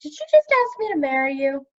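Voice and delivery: bright smiling delivery; smiling question. Acted. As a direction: ask with a beaming smile. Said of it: "with a blinding smile".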